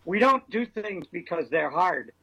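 slow Boston accent, hard as hahd. Shown as a demonstration. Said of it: "Thank you for that Boston accent".

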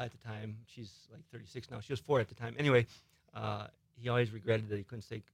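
faint, distant studio guest; distant, off-mic. Real, not acted. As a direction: talk quietly from too far off the mic. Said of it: "you sounded like you were from the outer realm".

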